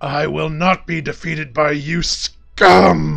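wounded, slow roaring dragon voice. A game master voices a badly wounded blue dragon in combat; wounded blue dragon's voice. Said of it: "and you see sparks in its jaws as it point blank blasts a lightning bolt at you. ... You get 16 blue dragon talons".

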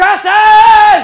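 very loud, very high, shrill drawn-out howl. Telling how dad fell in the dark, retelling a yell at the moon. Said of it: "looked up at the moon and just yelled".

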